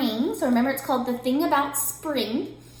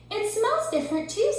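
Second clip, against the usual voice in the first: Bird voice; 9 semitones higher than usual. A narrator's reading. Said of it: "said Bird".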